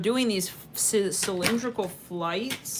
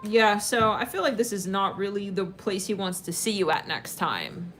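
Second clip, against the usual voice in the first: usual speaking voice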